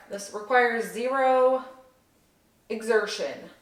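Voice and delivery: breathless, panting between words; catching breath mid-sentence. Real, not acted. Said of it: "I don't know why I'm out of breath".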